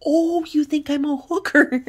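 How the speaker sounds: high whispered disbelief; incredulous whisper. Retold or imitated. Her stunned reply to the men, whispered. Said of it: "I'm like".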